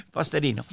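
"Posterino" with a tapped Italian r; Italian pronunciation. Shown as a demonstration. Host repeating guest's surname after laughing, Italian pronunciation. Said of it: "pronounced it Italian way".

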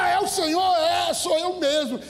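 high, excited retold call; Peter's shout. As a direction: cry out as if across water. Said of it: "Aí Pedro grita lá".

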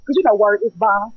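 rhythmic spoken word performance; spoken word poem. Acted. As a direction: perform it like slam poetry.

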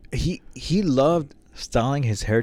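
whispered aside; hushed whisper about his hair. Real, not acted. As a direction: breathe it as a secret. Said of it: "whispered aside".

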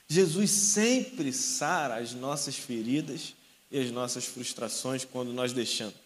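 slow, gentle sermon voice; tender preaching. Acted. Preacher telling the church that Jesus heals, slow and tender. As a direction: ease the words out, slowly.

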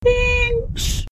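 tiny high weepy squeak; mock tearful. Mother retelling her reply to husband, mock tearful. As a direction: squeak out thanks as if crying. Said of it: "I'm, like, crying".

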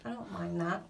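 words around a swallow of beer; drinking beer. Real, not acted. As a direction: speak mid-sip of a beer. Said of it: "I'm drinking beer".

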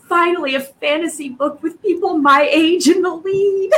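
acted-out excited reaction; delighted relief. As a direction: exclaim it as a long-awaited treat. Acting out own delighted reaction.

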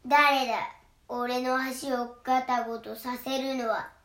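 loud, slow troll bellow; troll roaring. Acted. Troll bellows at the second goat, slow and loud. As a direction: roar it slowly from under the bridge. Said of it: "とトロルが怒鳴りました".

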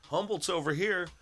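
hype announcer. Pretend. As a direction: call out to the world like a searchlight pitch. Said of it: "I'm gonna be flashing these lights, searchlights, going".

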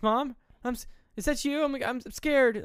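put-on very high, halting child's voice; scared little kid. Possessed mom asking if that's Mom, scared little kid. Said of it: "just a scared little kid".

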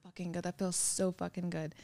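hushed imitation of her own pleasure; mock whisper. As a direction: breathe it out like you're lost in the moment. Imitating herself in the moment.

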